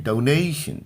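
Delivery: डोनेशन as dou-NAY-shun; डोनेशन with stress on ने; correct pronunciation. Shown as a demonstration. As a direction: say डोनेशन with a gliding first vowel and sh ending. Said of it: "डो पढ़ेंगे".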